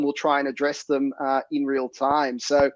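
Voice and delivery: raspy, hoarse throat. Real, not acted. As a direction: speak through a sore, hoarse throat. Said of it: "given my throat".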